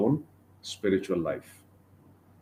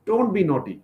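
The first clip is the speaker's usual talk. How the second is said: higher, quickening elder-brother scold; big brother tells him off; 6 semitones higher, faster than usual. Acted. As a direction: chide the naughty little brother. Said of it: "he chastises Krishna".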